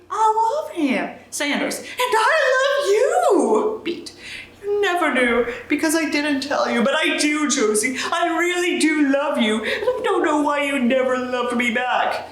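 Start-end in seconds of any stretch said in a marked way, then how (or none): 0.1-1.1 Josie, firm. Acted. Josie answers Sanders. 1.8-3.8 slow, high, laughing declaration; British Sanders pleading. Acted. Reader voicing Sanders confessing love in British accent. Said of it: "I can't do a British accent". 4.6-12.3 British Sanders. Acted. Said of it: "I can't do a British accent".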